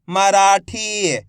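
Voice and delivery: मराठी very slowly sounded out; drawn-out long ई. Shown as a demonstration. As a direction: stretch रा and ठी in मराठी. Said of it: "खींच के पढ़ा जाता है".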